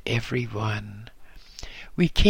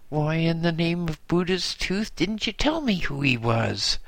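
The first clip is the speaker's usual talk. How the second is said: shocked outburst; 7 semitones higher than usual. A narrator's reading. Master shocked, scolding monk.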